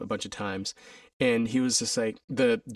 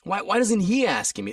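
higher, puzzled inner voice; inner frustrated thought; 9 semitones higher than usual. Retold or imitated. Dancer wonders why choreographer won't ask, higher puzzled voice. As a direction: think it aloud, baffled and higher. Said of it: "I'm like, in my mind".

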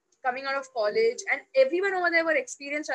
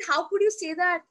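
indignant protest, moderately raised pitch; retold anger; 3 semitones higher, 4 dB louder than usual. Employee to her boss after being yelled at, angry. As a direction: throw the question back in hurt outrage. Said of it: "with so much anger".

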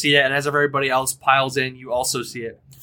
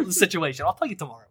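boisterous captain; 4 semitones higher, faster than usual. Acted. GM greeting the new crew as a brash high-voiced captain. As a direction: bellow a welcome as a brash captain.

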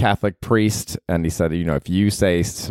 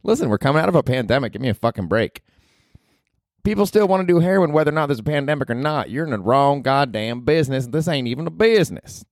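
much higher, brash redneck woman; Ruth from Ozark; 7 semitones higher than usual. Acted. Podcaster voicing Ruth, cursing at him, brash and high. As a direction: snap it like a foul-mouthed hillbilly girl.

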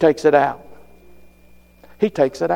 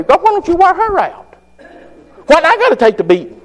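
high, pleading complaint to God; whining to God; 11 semitones higher than usual. Retold or imitated. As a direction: complain to God like a sulking child. Preacher voicing himself complaining to God.

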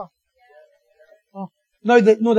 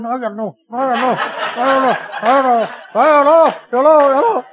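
contradicting credit card; 2 semitones higher, 5 dB louder than usual. Acted. Visa card answering the prophet, mock defiant. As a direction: butt in insistently, growing louder.

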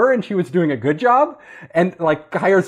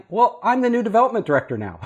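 laughing through a sheepish announcement; half-laughed claim of the new title; laughing declaration; 4 semitones higher than usual. Retold or imitated. New hire telling baffled readers his title, laughing. Retells own absurd reply.

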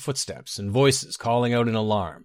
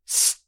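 angry hiss. Acted. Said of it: "he hissed angrily".

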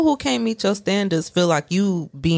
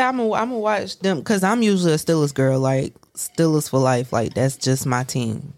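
assured, loyal fan; settled, slowing into firm conviction; more confident; 2 semitones lower than usual. Real, not acted. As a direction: state your team with easy certainty. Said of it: "That's a little more confident".

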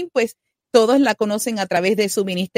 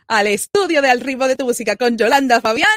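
big announcer welcome; 3 semitones higher, 7 dB louder than usual. Acted. Host welcoming Jasmine to the studio, loud announcer call. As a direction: call the guest in like a stage presenter.

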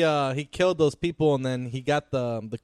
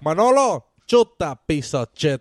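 barked order; 8 dB louder than usual. Retold or imitated. Quoting Tony's order.

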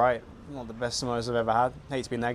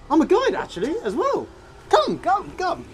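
put-on Indian accent; 5 dB louder than usual. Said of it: "And he went".

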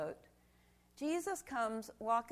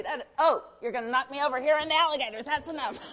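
higher and louder, fast words through real laughter; laughing; 4 semitones higher, 9 dB louder, faster than usual. Real, not acted. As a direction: giggle out the protest as you wobble. Laughing while child holds her.

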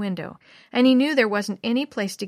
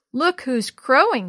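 chuckling; 4 semitones higher, 5 dB louder, slower than usual. Acted. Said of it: "chuckled Bill".

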